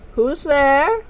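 loud, high call from within. A narrator's reading. Woman inside tent to Tiffany, calling out. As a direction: sing out to an unseen visitor.

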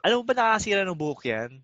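a hint of a nagging girlfriend, rushed; mock angry girlfriend. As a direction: fire it off like the scolding girlfriend. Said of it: "sabi niya na".

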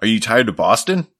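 a light pitchman read; lightly voiced local ad announcer; mock TV ad voice. A hint of a TV pitchman selling New Jersey. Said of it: "where it was like".

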